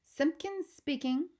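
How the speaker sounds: high, slow, self-important phone greeting; drawn-out, pompous telephone manner. Acted. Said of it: "in his very important telephony voice".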